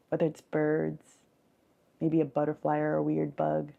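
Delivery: measured visualization with lingering pauses; guided meditation. Acted. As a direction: gently lead them through an imagined scene. Leads a guided forest visualization.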